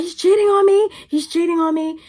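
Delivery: high, dramatic imitation of an upset friend; retold distraught complaint. Friend complaining about her crush, mock-distraught. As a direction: mimic her wailing accusation, pitched high.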